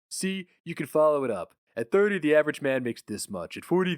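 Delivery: a touch of a breezy boss lecturing; a patronizing executive reciting company rules; smug manager. Acted. Boss explains salary curve.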